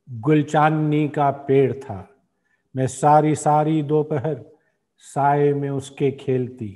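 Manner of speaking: measured Urdu verse, line by line with pauses; poem recitation. Acted. Host reciting a poet's symbolic nazm, measured recitation. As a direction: recite the nazm slowly and rhythmically.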